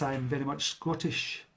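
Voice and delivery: thick mock Scottish, said slowly; put-on Scottish accent. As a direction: lay on the Scottish accent, drawn out. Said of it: "I put on a Scottish accent".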